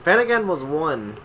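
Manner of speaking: put-on light try at her New York accent; mom's New York accent. Friend quoting Finn's mom, light New York accent. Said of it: "I'm trying to get her accent".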